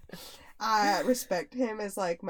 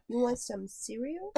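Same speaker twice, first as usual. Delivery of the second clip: little girl playing mom; 3 semitones higher than usual. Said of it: "she could be the mom".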